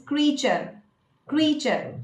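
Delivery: "creature" in two syllables, KREE-cher; correct pronunciation. Shown as a demonstration. Coach introducing the next word, correct pronunciation. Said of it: "but it's creature".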